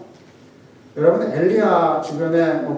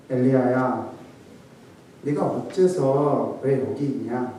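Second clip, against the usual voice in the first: gentle lament; 3 semitones lower, 4 dB quieter than usual. Shown as a demonstration. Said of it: "이렇게 했겠습니까".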